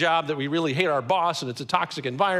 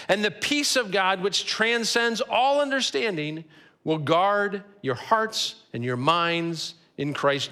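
measured scripture reading; slower than usual. Shown as a demonstration. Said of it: "These verses end with that phrase".

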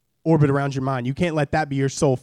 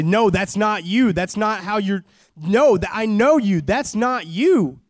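higher, earnest pleading, slow at the ends; pleading friend; 4 semitones higher, slower than usual. Retold or imitated. Friend at church pleading with a drifting member, earnestly. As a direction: beg him gently to come back. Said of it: "they'll say".

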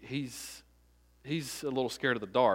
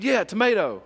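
put-on higher, louder, insistent child's answer; imitated little boy; 7 semitones higher, 7 dB louder than usual. Father imitating his five-year-old's answer, high and emphatic. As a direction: mimic a kid sure of his word. Small son insists on tomato.

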